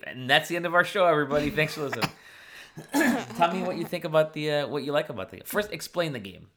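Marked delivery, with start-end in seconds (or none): 0.1-3.8 mock sign-off. Joking fake show sign-off.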